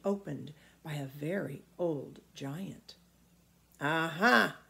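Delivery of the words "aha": giant's aha. Acted. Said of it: "said the giant".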